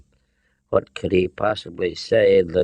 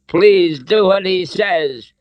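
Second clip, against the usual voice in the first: high, slow, loud plea; imploring; 11 semitones higher, 6 dB louder, slower than usual. A narrator's reading. Captive woman urges obedience, imploring. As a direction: beg desperately, stretching the words. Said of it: "Elsa implored".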